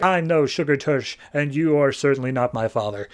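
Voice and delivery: lightly acted rebuff to a creep; retort. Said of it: "And Harley's like".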